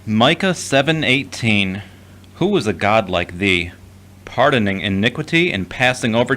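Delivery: scripture reading. Acted. Derek reads scripture aloud.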